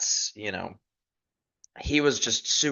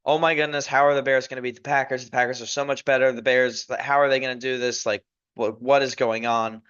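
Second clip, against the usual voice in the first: fast, slightly raised mock panic; mild retold freak-out. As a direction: imitate a buddy lightly panicking, words tumbling out. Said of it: "He's freaking out".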